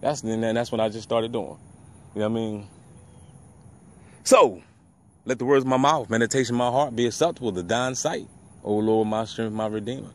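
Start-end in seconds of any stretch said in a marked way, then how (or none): 5.2-10.1 low, softening recited prayer; murmured scripture sign-off; closing prayer. Acted. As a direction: recite it low, letting it sink away at the end.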